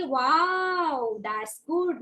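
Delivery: put-on long drawn-out praise for a baby; talking to baby. Shown as a demonstration. Teacher models praising a baby, baby talk. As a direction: stretch the wow for a baby. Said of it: "Just show the lips to the baby".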